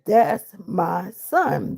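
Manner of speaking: each word drawn out slowly; THAT'S MY SON, every word stretched and separate; slow, word-by-word insistence on "That's my son"; insistent. Retold or imitated. Insisting to the officer blocking her.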